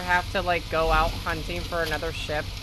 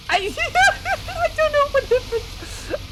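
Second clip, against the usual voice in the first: laughing; 4 dB louder, slower than usual. Real, not acted. Confused by sudden redeem.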